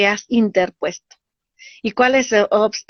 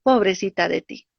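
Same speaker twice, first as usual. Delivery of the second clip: ego's pity voice; 4 semitones lower, 4 dB quieter than usual. Pretend. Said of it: "te empieza a decir".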